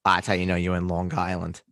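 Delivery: put-on playful Long Island accent; exaggerated Long Island accent. Co-host echoes a joke about locals, Long Island accent. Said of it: "your exaggerated Long Island accent".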